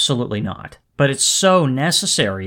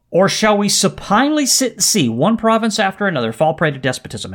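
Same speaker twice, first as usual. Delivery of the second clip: raised, emphatic oratory; impassioned letter reading; 5 semitones higher than usual. Acted. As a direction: read it like a statesman building his case. Quotes the letter's climax aloud.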